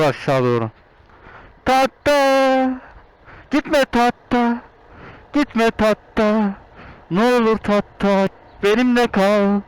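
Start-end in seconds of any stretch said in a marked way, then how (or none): 1.6-9.6 slow hammed-up begging; mock dramatic pleading. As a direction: beg it not to leave, melodramatic.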